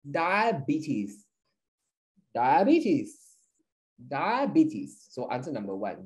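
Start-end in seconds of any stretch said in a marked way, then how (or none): 0.1-5.1 diabetes repeated as a model, "DYE-uh-bee-tees", falling at the end; correct pronunciation. Shown as a demonstration. Teacher drilling the class on diabetes, careful "dye-uh-bee-tees". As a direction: say diabetes clearly, one careful take at a time. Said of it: "the correct pronunciation is".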